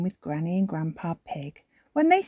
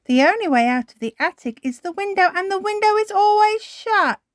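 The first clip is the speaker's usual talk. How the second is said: higher, quick and confident; Granny explaining; 7 dB louder, faster than usual. A narrator's reading. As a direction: assure them quickly. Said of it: "says Granny Pig".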